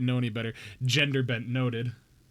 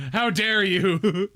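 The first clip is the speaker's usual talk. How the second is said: dramatic slow gasp; 4 semitones higher, 5 dB louder, much slower than usual. Pretend. Mock outrage, drawn-out take.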